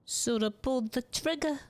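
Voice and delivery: high gruff tough guy line. Acted. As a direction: growl it like a movie thug. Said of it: "the voice that we decided to go for this guy".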